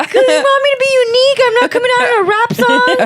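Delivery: rapid, high-pitched comic complaint; put-on aggrieved whine to a parent; mock indignation. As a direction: climb high and rush it, hammed-up outrage. Acts indignant complaint about his name.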